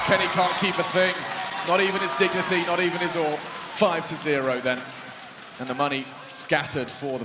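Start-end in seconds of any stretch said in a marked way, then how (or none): 0.1-3.4 excited. Real, not acted. Caster mocks failed retake.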